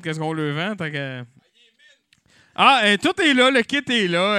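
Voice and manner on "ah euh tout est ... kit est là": triomphant. Acted. Vendeur exhibe le kit.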